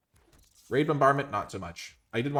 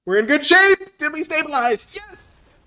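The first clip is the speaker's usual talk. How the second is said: much higher and louder, thrilled yell; excited shout; 13 semitones higher, 9 dB louder, slower than usual. Real, not acted. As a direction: shout it out in triumph.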